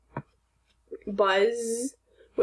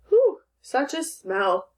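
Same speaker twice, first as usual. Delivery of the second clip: slow, higher-pitched reaction to a smell; mild exclamation; 4 semitones higher, slower than usual. Shown as a demonstration. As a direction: read it slowly as a mild exclamation. Rereads example as an exclamation.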